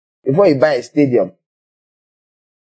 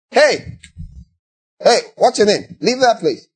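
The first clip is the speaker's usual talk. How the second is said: higher, commanding call that gets shouted down; bossy big-man voice; 5 semitones higher than usual. Retold or imitated. Preacher imitates an emigrant who tries bossing strangers abroad, higher and commanding. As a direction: order a stranger around as if you still matter. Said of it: "You know you can't use that voice".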